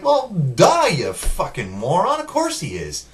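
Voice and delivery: high, loud "duh", easing back to normal; exasperated sarcasm, starting high and loud; mocking exasperation. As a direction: jeer at someone stating the obvious. Mocking the characters' obvious realisation.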